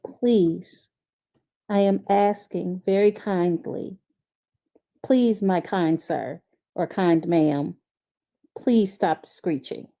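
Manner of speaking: slow, over-polite begging; mock polite pleading. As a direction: beg sweetly and slowly, mocking.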